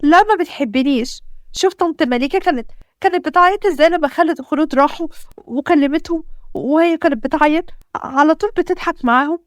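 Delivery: a hint of a scared daughter begging dad; frightened child. Daughter complains about her mother.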